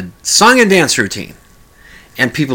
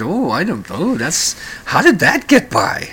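imitating dad; 4 semitones higher than usual. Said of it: "he just turned to me and said".

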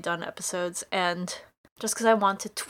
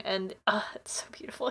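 unvoiced, much softer whisper; awed whisper; 9 dB quieter than usual. Real, not acted. Host moved by a father's scene, awed whisper. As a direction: breathe it with awe. Emotional gushing about scene.

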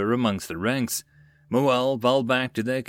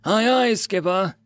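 high, drawn-out hearty shout; enthusiastic roar; 9 semitones higher, 4 dB louder than usual. A narrator's reading. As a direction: roar back as an eager crew. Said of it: "the crew roared out enthusiastically".

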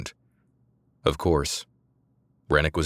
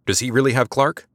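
high, louder urgent call; calling back; 7 semitones higher, 4 dB louder than usual. A narrator's reading. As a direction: call out across the clearing, alarmed. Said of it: "Samantha called back".

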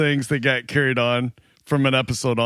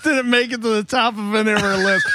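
higher, laughing outburst; amused, incredulous cry; laughing disbelief; 7 semitones higher than usual. Real, not acted. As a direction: exclaim it through your laughter. Cracking up at co-host's story.

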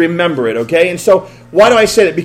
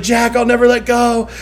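Rose's promise; 5 semitones higher than usual. Retold or imitated. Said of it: "she's like".

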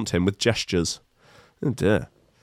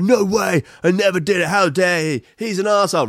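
mock indignation; 7 semitones higher than usual. Imagined indignant denial.

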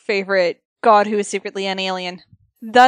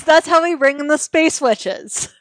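repeating the line with a laugh in it; laughing echo; 6 semitones higher, 6 dB louder than usual. Real, not acted. Cohost echoing the space witches idea while laughing.

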